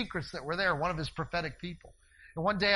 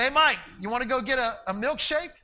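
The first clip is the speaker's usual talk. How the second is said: calling out; 5 semitones higher, 5 dB louder than usual. Retold or imitated. Calling back on bike.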